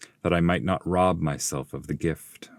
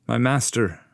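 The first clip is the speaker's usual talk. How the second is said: eager pupil calling his master, raised pitch; Dante the pilgrim; 7 semitones higher, 3 dB louder than usual. Acted. Pupil addressing his guide, raised eager voice. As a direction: call him respectfully, a touch eager.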